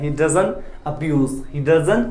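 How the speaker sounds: every word stretched out slowly; slow dictation. Shown as a demonstration. Teacher dictating the sentence slowly to students. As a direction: say it slowly so students can write it down. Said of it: "ठीक है".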